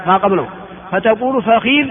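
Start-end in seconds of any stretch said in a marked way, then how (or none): 1.4-1.9 فخذ as fakhidh; original form. Shown as a demonstration. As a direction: say فخذ with a, then i. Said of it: "هذه اللغة الأصلية". (فخذ بفتح الفاء وكسر الخاء)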